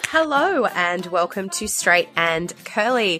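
slightly husky from a cold; husky, a bit rough from a cold. Real, not acted. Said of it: "if I sound a little bit husky".

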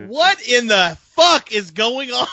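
high, loud, slow cry through laughter; bewildered laughter at the chaos; laughing disbelief. Real, not acted. Cohost baffled by Corey, loud laughing outcry.

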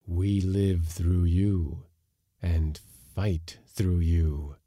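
very slow, eerie; hollow spirit voice; ghostly whisper-like voice. Acted. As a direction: claim his body as a host. Spirits explain.

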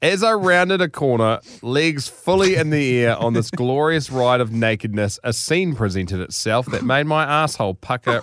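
measured, theatrical read-aloud; deliberate storytelling delivery; story narration. A narrator's reading. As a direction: read it like a grand tall tale.

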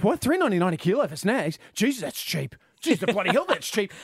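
a touch of mock astonishment, cheap stretched out; amazed disbelief. Host retelling the studio's shock at cheap snags, mildly amazed. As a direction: gasp at the price like it can't be real. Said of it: "all of us went".

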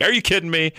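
high, incredulous are you kidding me; exasperated disbelief. Retold or imitated. Ranting to listeners about the useless warranty call, high incredulous disbelief. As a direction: pitch it way up in disbelief.

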